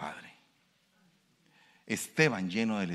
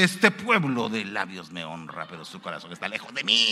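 voice of God; 4 semitones lower, 5 dB louder than usual. Acted. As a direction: proclaim the verse as God's own words. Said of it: "Porque la Biblia dice". (voz solemne de Dios)

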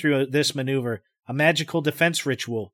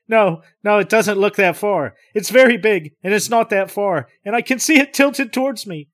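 agitated; 7 semitones higher, 6 dB louder than usual. Acted. Agitated insistence.

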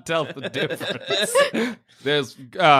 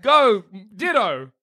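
laughing battle cry; 3 semitones higher, slower than usual. Acted. Sending Ditto into battle.

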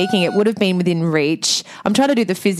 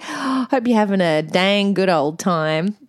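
mock Texan accent; slower than usual. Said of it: "I'm offending a lot of people".

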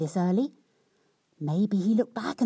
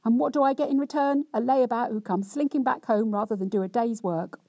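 hammed-up self-pitying rant; cross, wronged wife; 6 semitones higher than usual. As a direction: lay on the injured virtue, complaining. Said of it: "in much the same way as before".

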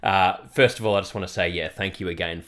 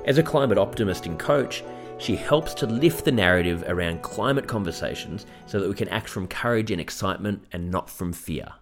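scripted welcome read to listeners; podcast introduction read; podcast host intro. Acted. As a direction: introduce the guest in a measured presenter's read.

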